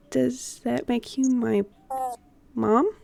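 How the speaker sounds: soft, shy question; shyly. Acted. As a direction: ask it almost too shyly to hear. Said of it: "very shyly".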